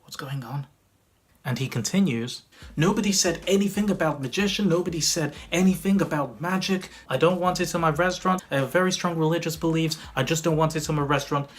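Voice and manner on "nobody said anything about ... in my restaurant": raised, insistent mock complaint; imitated objection. Restaurant manager objecting to magic in his restaurant, imitated indignation. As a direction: act out an indignant protest.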